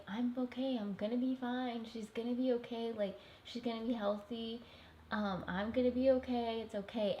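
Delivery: calm him down as if nothing is wrong; reassuring. Retold or imitated. Telling her scared husband she'll be fine, gently reassuring. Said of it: "I have to reassure him".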